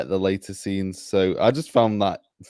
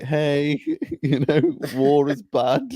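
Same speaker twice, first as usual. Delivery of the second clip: mock orc sermon; 6 semitones higher than usual. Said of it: "just randomly he's like".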